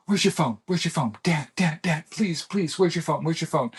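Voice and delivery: mock frantic begging for the phone; retold panic. Son at 1:30 a.m. begging his dad, imitated panic. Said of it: "just panicked".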